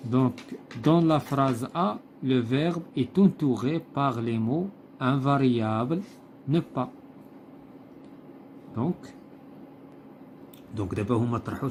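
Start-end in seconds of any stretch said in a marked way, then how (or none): 0.8-6.9 slow, deliberate read-aloud of the text; slow textbook reading. Acted. Teacher reading the textbook passage to pupils, slow and deliberate. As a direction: read each phrase slowly, like dictation to the class.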